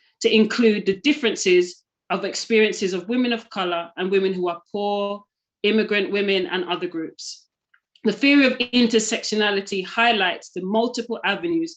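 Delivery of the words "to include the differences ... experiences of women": usual speaking voice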